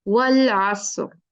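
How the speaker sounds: वल असर slow, stretched, heavy र at the end; slow recitation. Shown as a demonstration. Teacher recites a Quran example slowly for students. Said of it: "recitation demo".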